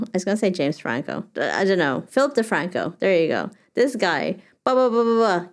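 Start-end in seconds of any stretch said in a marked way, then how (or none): 4.6-5.5 mock fast talker. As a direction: rattle off filler like a hyper YouTuber. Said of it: "People talking super fast".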